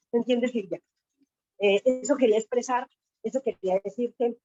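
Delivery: can barely contain her excitement. Real, not acted. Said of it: "perdóname si me emociono mucho".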